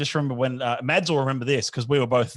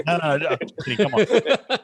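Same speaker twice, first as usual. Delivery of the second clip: laughing; 3 semitones higher than usual. Real, not acted. Host takes back joke about ejecting people, laughing. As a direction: laugh off your own threat.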